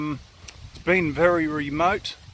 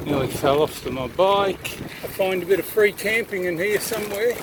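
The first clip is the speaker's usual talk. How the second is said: on a bumpy road; 3 semitones higher than usual. Real, not acted. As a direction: voice jolted by bumps. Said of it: "Sorry about the bumps".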